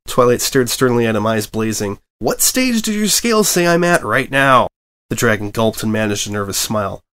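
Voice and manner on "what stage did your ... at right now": stern question. Acted. Twilight stares sternly, eyes blazing.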